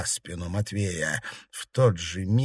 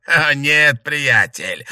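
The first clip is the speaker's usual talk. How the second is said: smirking; 4 semitones higher, 6 dB louder, much slower than usual. A narrator's reading. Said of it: "усмехнулся Бест".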